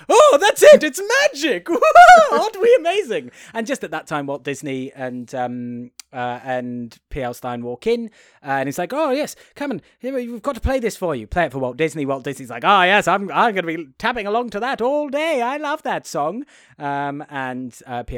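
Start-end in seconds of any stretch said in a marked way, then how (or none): 0.1-3.3 very high, loud eureka cry; hammed-up self-congratulation breaking into a laugh; mock elation. Songwriters celebrate cracking the lyric, over-the-top giddy delight. 8.9-11.3 high, gushing welcome; acted eagerness. Songwriters usher Walt Disney in to hear it, hammed-up eagerness. 12.7-16.4 high, loud, gushing approval; hammed-up enthusiasm of a pleased boss; mock delight. Walt Disney praises the composers' new song, hammed-up delight.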